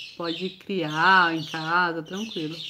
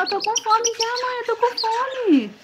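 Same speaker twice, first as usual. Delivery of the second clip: put-on baby bird voice; 14 semitones higher than usual. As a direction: speak for the chick, begging mom for food. (voz fininha de filhote pedindo comida)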